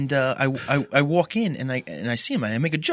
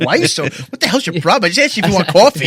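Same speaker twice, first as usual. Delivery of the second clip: annoyed retort; 2 semitones higher, 6 dB louder than usual. Retold or imitated. Coworkers retorting, acted quote.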